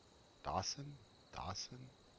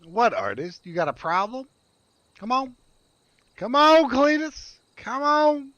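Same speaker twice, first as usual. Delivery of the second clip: squeaky high teasing, louder and louder; playful high taunt; 12 semitones higher, 8 dB louder than usual. Acted. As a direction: egg the pet on in a high squeal.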